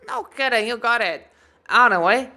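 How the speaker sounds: high, loud, chirpy; dwarf smith voice. Acted. Dwarf smith joking with customer, high and loud. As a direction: stay in the cheery dwarf. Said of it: "dwarf voice continues".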